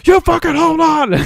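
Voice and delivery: high, loud strained yell imitating a character; retold yell. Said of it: "yelling at him".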